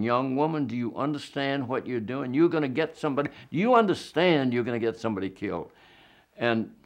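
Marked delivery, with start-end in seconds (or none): 0.0-5.7 mild reenacted shout, raised pitch; retold shouting. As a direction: raise the voice in urgent retold alarm, hurrying at the end. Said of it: "I felt my voice go up another decibel and another, and soon I was shouting".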